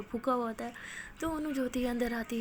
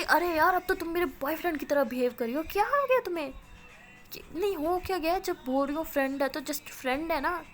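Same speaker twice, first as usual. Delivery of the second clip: higher, louder, indignant denial; exasperated protest; 5 semitones higher, 3 dB louder than usual. A narrator's reading. Girl denying to her jealous friend he's a boyfriend, exasperated. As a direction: push back, fed up with the accusation.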